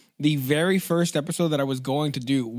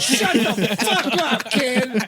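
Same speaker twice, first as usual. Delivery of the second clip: gruff dad yell; 9 semitones higher, 4 dB louder, much slower than usual. Pretend. Voicing abusive dad.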